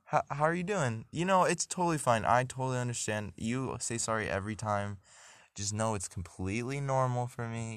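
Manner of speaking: high, eager friendly toilet; chirpy, overly reassuring host voice; sentient toilet voice. Pretend. Toilet greeting the nervous bathroom user, high and eager. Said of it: "And he's like".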